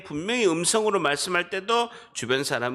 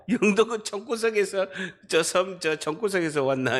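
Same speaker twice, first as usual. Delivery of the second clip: laughing imitation of teasing put-down; mock scorn; 4 semitones higher than usual. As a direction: tease the hometown in Gyeongsang dialect, half laughing. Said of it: "이러면서 막 구박하는 게". (사투리로 구박하는 흉내)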